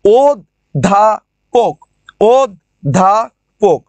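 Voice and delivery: অধ্যাপক said slowly as ওদ্দাপক; slow syllable-by-syllable অধ্যাপক with doubled দ; doubled d demo. Shown as a demonstration. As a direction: drag out অধ্যাপক with a held double দ. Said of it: "দয় ধ হয়ে গেছে".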